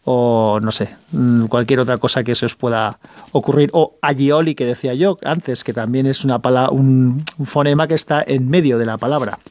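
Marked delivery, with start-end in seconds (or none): 4.0-4.6 Agioli with a palatal ly sound, "a-lyi-o-li"; Valencian ll. Shown as a demonstration. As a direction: say Agioli with ll, not plain l. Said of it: "se pronuncia como una L".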